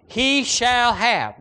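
slow, drawn-out He shall have, He hit hardest; emphatic stress. Shown as a demonstration. Preacher to congregation, stressing He in He shall have, slowly. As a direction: lean on He in He shall have, each word slow. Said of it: "That's the strongest Greek emphatic word".

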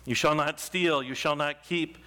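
solemn, measured reading of the law; scripture reading. Acted. Pastor reading the law of holiness to the congregation, solemn. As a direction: proclaim each command with weight. Reads Leviticus aloud from pulpit.

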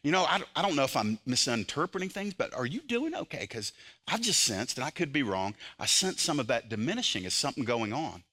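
gentle, caring check-in with a friend; gracious concern. Retold or imitated. Believer gently asking a struggling friend if he's okay, caring and gentle. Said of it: "come to them in grace".

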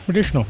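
teasing copy of "Medicinal" with a sh in the middle; imitated mispronunciation. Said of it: "just like you did".

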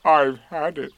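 glum, emphatic donkey voice; doleful and loud; gloomy. A narrator's reading. Eeyore refusing Pooh's present, gloomy. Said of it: "said Eeyore gloomily".

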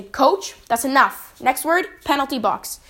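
demonstrating a no-nonsense referee's order; firm. Shown as a demonstration. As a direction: cut the coach off with authority. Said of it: "you gotta be firm".

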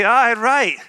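"Aye, right" dropped flat and doubting, meaning no; sarcastic aye right. Shown as a demonstration. Preacher showing the sarcastic Aye, right to his church. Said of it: "But if I say".

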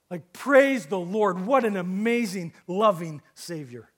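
loud, slow preacher's exclamation of praise; exultant preaching. Acted. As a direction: proclaim it to the congregation in awe.

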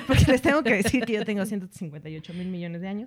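said through laughter; laughing joke. Real, not acted. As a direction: crack up while making the exaggerated claim. Jokes about age while laughing.

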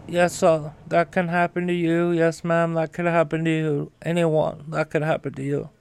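folksy former president selling the dream; Jimmy Carter impression. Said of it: "I love doing a Jimmy Carter impression".

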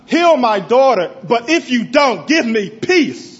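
a desperate father praying over his paralyzed daughter; pleading prayer. Retold or imitated. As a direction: beg God from the bottom of your heart. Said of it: "I prayed, "God".

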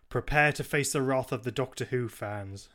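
with gravitas. Shown as a demonstration. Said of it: "trying to say this with some gravitas".

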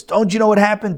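loud, high scolding; Moses laying into them. Retold or imitated. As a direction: tear into the tribes. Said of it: "he just lays into them".

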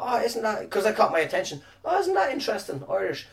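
high, put-on voice of fake interest; hammed-up wide-eyed wonder; mock fascination. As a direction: act dazzled by the plate, tongue in cheek.

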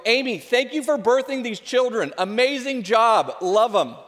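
a joking husband praising his wife loudly; mock grand thanks. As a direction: gush over her like a game-show host. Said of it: "I go".

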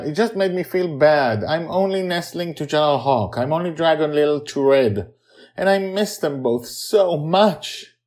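put-on high, sad child's confession; a grieving girl close to tears; sad little girl. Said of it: "Joy begins to sob".

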